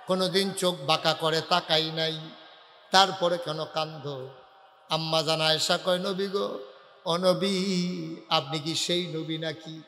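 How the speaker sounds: drawn-out, lilting preacher's telling; melodic sermon narration. Acted. Preacher retelling Ayesha's talk with the Prophet, melodic narration. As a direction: stretch the phrase endings in a plaintive chant.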